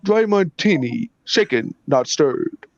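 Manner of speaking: Sean Connery impression. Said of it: "his favorite line".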